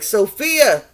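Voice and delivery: lightly voiced goddess hailing a friend; earth goddess calling. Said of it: "she looked to the sky and was like".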